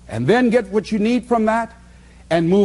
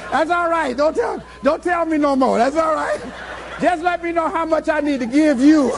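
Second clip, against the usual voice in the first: higher, laughing through hurried customer lines; 8 semitones higher than usual. Retold or imitated. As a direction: play the flustered customer while laughing. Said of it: "they used to say".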